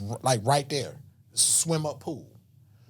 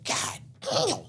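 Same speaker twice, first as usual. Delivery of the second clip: impressed guy. Retold or imitated. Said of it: "I hear a guy go".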